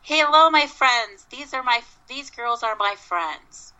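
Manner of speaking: imitating a friendly call into the woods; mild mock yell. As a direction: call out high, easing off by the end. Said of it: "he yelled out".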